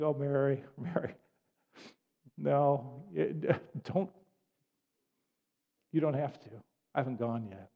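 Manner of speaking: halting, tender reassurance; calm someone who is clinging to you; gentle reassurance. Acted. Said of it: "he's just saying".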